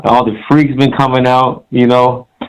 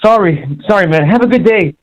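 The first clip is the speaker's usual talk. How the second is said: higher-pitched imitation of an apologetic kid; mock apology; 6 semitones higher than usual. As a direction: imitate a kid excusing himself, voice lifted. Retells kid hastily apologizing.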